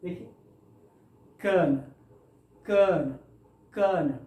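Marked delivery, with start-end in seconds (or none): 1.4-4.1 कर्नल said kən, r silent; कर्नल drilled without the र; colonel said right. Shown as a demonstration. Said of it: "इस तरीके से". (कर्नल, र छुपा हुआ)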